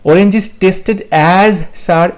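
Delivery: each word slow and separate; slow, careful reading of an exam option; slow dictation. Shown as a demonstration. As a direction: read it out word by word for the class. Rereading a wrong option.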